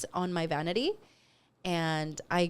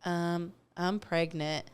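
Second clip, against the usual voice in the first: hesitant confession; 2 semitones lower, 3 dB quieter, much slower than usual. Retold or imitated. Retold nervous pregnancy announcement.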